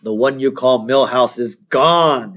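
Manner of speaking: slow, grave pronouncement; mock-portentous, unhurried delivery; ominous hazmat man. Hazmat guy telling Bart the news, slow and ominous. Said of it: "a guy in what looks like a spacesuit".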